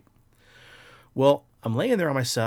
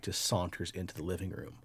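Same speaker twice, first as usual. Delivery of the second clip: ordinary delivery, nothing marked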